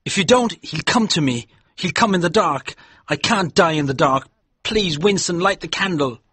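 high, loud begging; terrified pleading. Acted. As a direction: afraid of dying in the dark. Haldane begs in terror.

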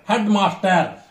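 Headmaster with both HEAD and MASTER stressed; stress on both elements. Shown as a demonstration. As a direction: give Headmaster equal weight on head and master. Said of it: "both elements stressed".

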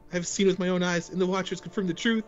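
high, grand speech; voice acting. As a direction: address the council with gravity. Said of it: "Amazing voice acting".

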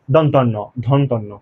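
দন্তন্য slow, tongue close to the teeth; dental articulation. Shown as a demonstration. Teacher showing tongue position near the teeth, careful dental demonstration. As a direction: place each n of দন্তন্য at the teeth. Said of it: "দাঁতের কাছাকাছি চলে আসবে".

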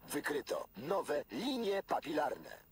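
robotic voice, one step up in volume. Acted. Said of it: "trzydzieści trzy procent głośniej".

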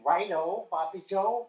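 Righto, Bobby Joe? both rising like a question; baffled rise on Bobby Joe; puzzled echo. Retold or imitated. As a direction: repeat the name in disbelief. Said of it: "and I'm thinking".

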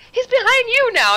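a sudden alarmed report, half acted; retold urgent warning. Old patient warns the therapist.

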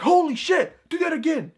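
very high, loud burst of amazement; amazed. Retold or imitated. Kid sees the card cut, amazed exclamation.

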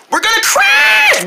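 very high, slow terrified yell; panicked shout. Acted. Boy warning the armadillo, very high terrified yell. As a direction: scream a warning before impact. About to crash.

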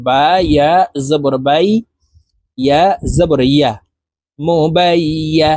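measured spelling-out, leaning on the doubled y in বাই ইয়া. Shown as a demonstration. Teacher showing how tashdid is read, doubled ya. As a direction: spell it out with ইয়া sounded twice, closing বাই and opening ইয়া. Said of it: "দেখুন, এইভাবে পড়তে হবে".

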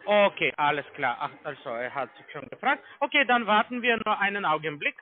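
the same caller lightly playing his own boss; posing as the manager. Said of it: "ich gehe zu meine Manager".

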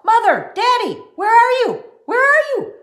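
high, loud calling down the hall. A narrator's reading. Girl runs down the hall calling her parents, loud excited shout. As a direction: shout for the parents, bursting with news.

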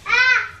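pretend crying. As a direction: pretend to cry for a toddler. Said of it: "she thinks I'm crying".

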